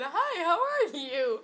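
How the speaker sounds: high, loud, drawn-out mock greeting; exaggerated singsong hello through amusement; overfriendly greeting. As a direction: greet a stranger far too cheerily, stretching it out. Greeting every passerby while high.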